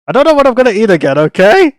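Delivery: fast, loud panicked rant; frantic rushed rant. Real, not acted. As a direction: blurt it all out at top speed. Frantic outburst about food.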